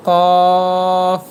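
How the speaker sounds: কফ said heavy from the tongue root; Arabic letter demo. Shown as a demonstration. Teacher introducing কফ aloud. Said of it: "এর পরের হরফটি".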